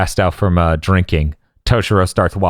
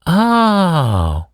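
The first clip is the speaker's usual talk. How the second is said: imitating Orihime; 3 semitones higher, slower than usual.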